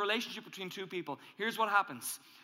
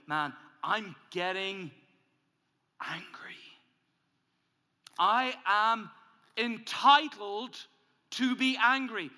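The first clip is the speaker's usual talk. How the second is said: angry self-talk; 2 semitones higher, 5 dB louder, slower than usual. Acted.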